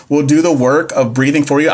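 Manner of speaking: reading the option through helpless laughter; can't keep a straight face, laugh through the words; laughing while reading. Real, not acted. Tutor laughing at a silly answer option, reading through laughs. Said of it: "I don't know why I'm laughing".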